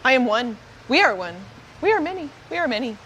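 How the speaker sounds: short phrases, each with its own swoop; odd-patterned hive mind. Acted. Nexus explaining itself to the party, odd repetitive chant. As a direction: count yourself as one, then many, in lilting bursts. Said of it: "a pretty funny pattern of talking there".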